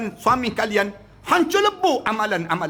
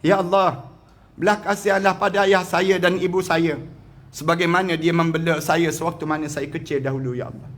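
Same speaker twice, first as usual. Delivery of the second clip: humble prayer; 5 semitones lower than usual. Shown as a demonstration. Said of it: "Sebut pada Allah".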